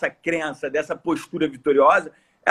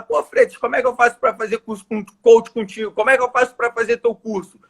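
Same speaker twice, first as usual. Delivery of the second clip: higher-pitched imitation of a keen customer; eager client; 4 semitones higher than usual. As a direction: act out someone keenly asking to sign up. Imita cliente interessado pedindo o curso. (imitando cliente interessado, em tom mais agudo)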